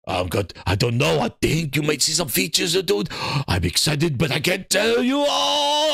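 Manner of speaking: mock coy exec teasing; Herman Holtz impression. Streamer mocks Herman Holtz hinting features, coy voice. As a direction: hold back the news with a smirk. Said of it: "I'm just Herman Holtz".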